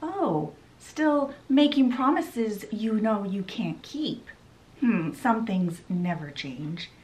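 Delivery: slow, whispered taunt from behind; sly rival fairy. Retold or imitated. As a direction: purr it like a villain who just crept up. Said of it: "she heard a voice behind her say".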